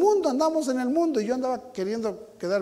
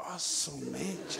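scared gasp; 4 semitones lower, 11 dB quieter, much slower than usual. Retold or imitated. Looking down from the top.

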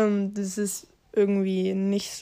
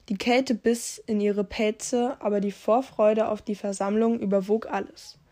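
measured read-aloud storyteller voice; story narration. A narrator's reading. YouTuber reading out a Warrior Cats story, story narration. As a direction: read it out like a tale.

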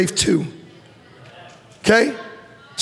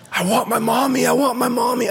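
higher, mock-babyish whine; whiny little kid; 5 semitones higher than usual. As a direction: play it like a pouting small child crying for mommy. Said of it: "How embarrassing is that?".

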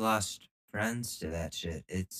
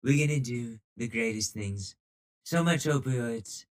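mock Trump voice; 2 semitones higher than usual. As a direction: brag it like a hammed-up Trump rally. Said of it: "you do a better voice than that".

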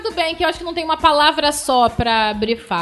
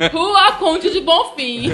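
gps voice; 3 semitones higher, much slower than usual. Retold or imitated. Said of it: "voz do G P S do Google Maps".

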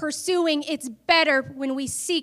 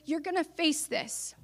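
soft retold whisper; 9 dB quieter than usual. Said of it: "he whispered to me".

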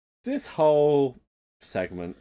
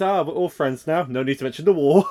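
mock Basil; 4 semitones higher, 7 dB louder than usual. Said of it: "He goes".

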